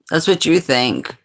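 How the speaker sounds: laugh, then snap back; amused comeback; laughing retort. Real, not acted.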